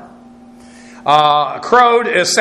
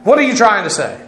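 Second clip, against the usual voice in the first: higher-pitched, mildly affronted question; defensive retort; 5 semitones higher than usual. Acted. Guilty man reacting to an accusation, defensive and higher-pitched. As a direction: challenge the accuser back. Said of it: "how very often guilty people will, will react".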